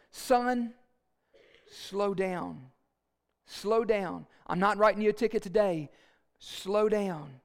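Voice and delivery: lightly voiced officer giving a firm warning; stern officer. Officer warns a speeding driver at the car, mildly stern. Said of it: "walks very sternly up to your car".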